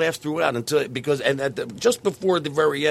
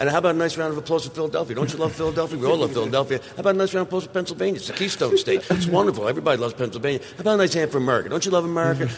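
emcee voice. Retold or imitated. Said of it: "my absurd opening".

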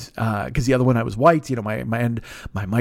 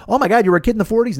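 mock drunk amazement; 8 semitones higher, faster than usual. Drunk passenger's disbelief.

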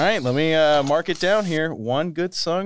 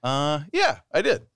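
hesitant yes after a thinking pause; unsure, stalling on "uh" first; uncertain. Real, not acted. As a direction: answer with a little doubt. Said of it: "a little uncertainty there".

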